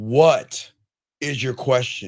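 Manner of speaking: slow, deliberate, each word drawn out patiently. Losing patience with the person on the phone, asking one last time; slowed down. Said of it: "I'm going to slow it down".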